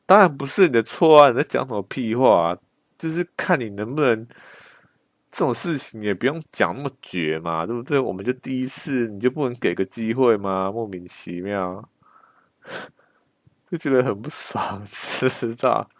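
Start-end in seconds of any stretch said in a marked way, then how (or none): 0.1-11.9 retelling what he wished he had said, indignant; annoyed retort. Retold or imitated. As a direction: vent the old grudge, half acting it. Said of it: "真的是超不爽的".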